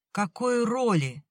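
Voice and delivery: slow, high, bewildered "Какой роли?"; stunned question. A narrator's reading. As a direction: ask it as if you can't believe it. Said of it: "ошеломлённо спросил Семён".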